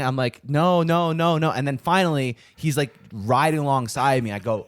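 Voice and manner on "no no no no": raised, louder string of refusals; retold refusal. To the pursuing canvasser, raised mock refusal. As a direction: wave him off with rapid-fire mock refusals, pitched up.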